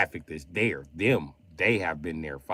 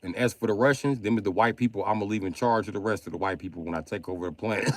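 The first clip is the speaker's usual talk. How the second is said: higher, louder mock Chinese accent throughout; 3 semitones higher, 5 dB louder than usual. Reading his friend Lee's texts aloud in a mock Chinese accent. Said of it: "why am I reading everything Lee said in Chinese accent".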